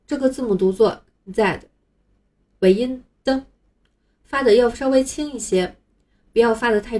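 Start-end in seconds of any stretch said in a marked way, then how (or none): 1.3-1.6 "Z" as British zed, light ending; British "Z" set against American. Shown as a demonstration. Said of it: "在英国".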